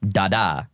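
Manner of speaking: "Da da" with the second "da" stressed; weak first "Da", strong second "da"; iambic stress. Shown as a demonstration. Poet shows host what an iamb is, stress on second syllable. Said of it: "unstressed syllable followed by a stressed".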